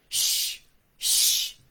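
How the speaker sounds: whispered shushing; hushing shh. A narrator's reading. Farmer's wife shooing the crow, whispered shush. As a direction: hush the crow away in a whisper. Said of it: "the farmer's wife said".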